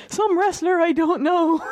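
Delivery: high, slow imitated shout of a Scottish accent-free move name; mock wrestler shout. Captain Sexy calling out the wrong move name, hammed-up shout. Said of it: "he just shouts".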